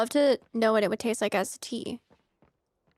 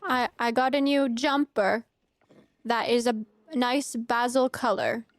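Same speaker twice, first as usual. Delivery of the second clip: attempted fancy British; slower than usual. Shown as a demonstration. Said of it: "trying to be fancy like you guys".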